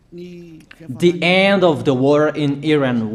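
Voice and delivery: slow, each word of "the end of the war in Iran" set apart for note-taking; slow dictation. Shown as a demonstration. Preacher to listeners taking notes, slow dictation. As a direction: spell it out so they can write it down. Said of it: "So you write down first".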